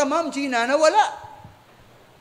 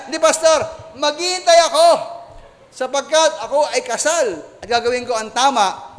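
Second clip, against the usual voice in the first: firm declaration; 3 semitones higher, 4 dB louder than usual. Acted. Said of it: "Sabi niya".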